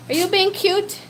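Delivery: high, loud doting squeal. Real, not acted. Baby talk to pet.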